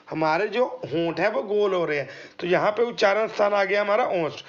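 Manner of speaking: ordinary talk, nothing marked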